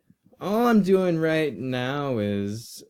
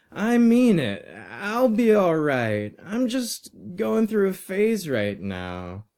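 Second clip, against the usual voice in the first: put-on higher-pitched, pleading teenage student; earnest reassuring boy; 6 semitones higher than usual. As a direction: reassure an old teacher, voice pitched up. Narrator voices the boy reassuring sir.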